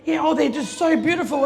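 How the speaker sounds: mock-proud gushing over the babies; showing off the twins, gushing. Proud mum gushing about twins.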